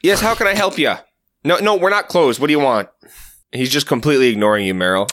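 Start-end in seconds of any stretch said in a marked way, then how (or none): 0.0-2.9 a higher, eager shop-counter voice; customer service voice. Acted. Kyle greeting a new customer in his chirpy service voice, a bit higher. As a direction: put on the polite vendor act. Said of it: "what's his voice?".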